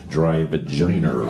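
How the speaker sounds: dry "vagina" with an added final r, Boston style; low Boston-accented "vagina", ending like "vaginer"; lightly put-on Boston accent. Shown as a demonstration. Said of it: "I did because I grew up in Boston".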